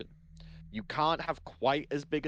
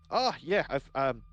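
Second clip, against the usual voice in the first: off-voice Bosun attempt; 3 semitones higher, 3 dB louder than usual. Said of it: "I've gotta get Bosun's voice right".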